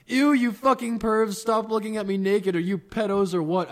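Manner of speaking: loud, high outraged yell; screaming. Acted. Heroine screaming at the pervs spying on her. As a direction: yell at the peeping teachers in disgust. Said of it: "I screamed".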